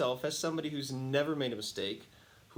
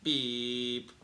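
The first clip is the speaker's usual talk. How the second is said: a spoken "beep" standing in for a swear; mock censor beep covering a curse; self-bleep. Frustrated son bleeping himself to his mom, mock beep. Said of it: "And I went".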